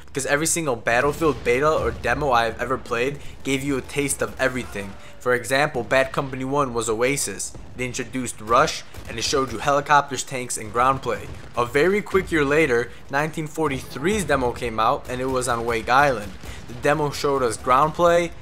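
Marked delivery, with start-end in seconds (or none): none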